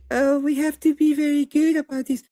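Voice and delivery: high, mincing parody of the timid side; mocking prissy voice. Debater mocking cautious conservatives, high prissy parody. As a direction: sneer at them in a prim high voice.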